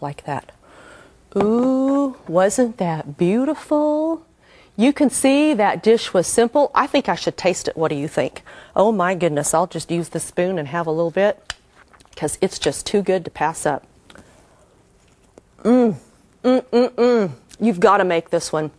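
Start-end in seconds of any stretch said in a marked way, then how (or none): 1.4-4.2 savoring delicious food. Real, not acted. Admiring the plated dessert. 15.6-17.3 savoring mm. Real, not acted. Tastes the dessert.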